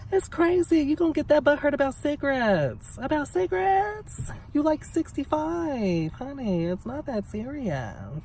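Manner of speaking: mock the fuss with high-pitched sass; sassy disbelief. Real, not acted. Venting to viewers about the neighbor, high sassy disbelief.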